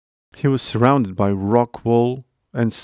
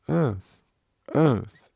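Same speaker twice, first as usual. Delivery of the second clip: fading echo; 4 semitones higher than usual. A narrator's reading. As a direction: let the word ring off the chasm walls. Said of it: "the echo replied".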